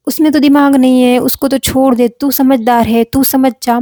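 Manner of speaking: lightly acted coaxing to be sensible; retold parental persuasion. Parents talking daughter into letting her brother be, mildly persuasive. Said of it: "वो दोनों मुझे समझाते थे".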